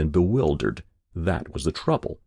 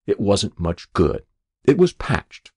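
defiant; 3 dB louder than usual. Acted. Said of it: "he said defiantly".

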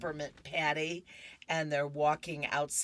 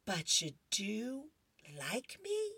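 put-on little girl asking; 6 semitones higher, 4 dB quieter than usual.

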